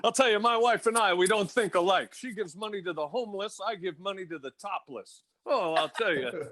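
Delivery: lightly voiced put-upon comic; grumbling no-respect comic, lightly done; Rodney impression. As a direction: do a hint of an old-school one-liner comedian. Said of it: "Bring, bring me Rodney".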